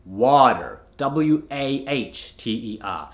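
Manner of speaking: water with open "ah" and an "er" ending; American accent. Shown as a demonstration. Coach shows what it becomes, American accent. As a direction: say "water" the American way, as "wah-ter". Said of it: "has to become an R".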